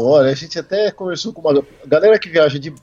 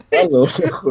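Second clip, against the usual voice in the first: laughing; slower than usual. Real, not acted. Laughing about the cold.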